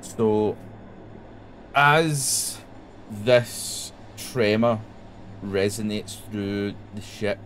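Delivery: drawn-out scene setting with long silences; game master narration. A narrator's reading. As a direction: build suspense with heavy pauses.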